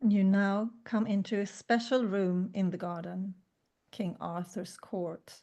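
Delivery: calm meditation narration; guided meditation. Acted. S0 continues the meditation.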